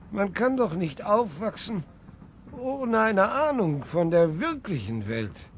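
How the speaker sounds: heated. Acted. Grandfather argues with his son, loud and impassioned. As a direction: rail against the cage they live in.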